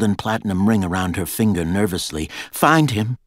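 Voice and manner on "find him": short, higher, louder command; terse order. A narrator's reading. Girl ordering her guards to find Jack, terse. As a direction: give a curt order, pitched up. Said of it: "she said tersely".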